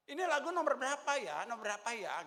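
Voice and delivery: loud asking, imitating someone hard of hearing; lightly voiced deaf man. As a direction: call it out like a deaf chorister, lightly acted. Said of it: "Saya baru tahu juga dia budak".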